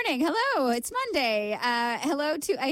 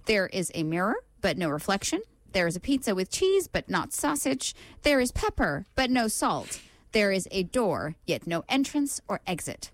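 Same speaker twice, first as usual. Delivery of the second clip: riddle read-out. Acted. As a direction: lay out each clue deliberately, with clear pauses. Reads out the brain teaser.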